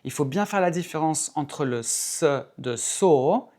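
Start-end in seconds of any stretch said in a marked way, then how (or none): 1.8-3.5 SORE starting on a clear hissed S; true S. Shown as a demonstration. Teacher contrasts S with TH, true-S demo. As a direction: isolate the S, then a long SORE. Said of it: "qui est un vrai S".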